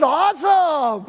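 high, slow, loud awesome; drawn-out delight. Retold or imitated. Pastor cheering Jack's knee pain, delighted. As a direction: stretch out the awesome, beaming.

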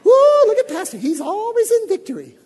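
high mocking praise voice, laughing; hammed-up gushing admirer; mocking churchgoer. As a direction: mimic a fawning churchgoer gushing about Pastor. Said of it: "I don't wanna put on the Ritz".

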